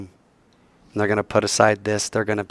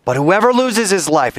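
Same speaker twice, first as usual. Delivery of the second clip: retold cry; 9 semitones higher, 4 dB louder than usual. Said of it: "he's screaming this from the top".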